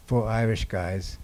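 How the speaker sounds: Irish said slowly and weighted; Irish given a slow, deliberate weight; stress on Irish. Real, not acted. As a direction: lean on the word Irish. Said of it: "I emphasize the word Irish".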